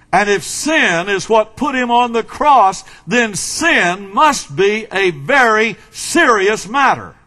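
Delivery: firm pulpit emphasis, slowing toward the end; emphatic preaching. Acted. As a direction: drive the point home from the pulpit. Preaching with force.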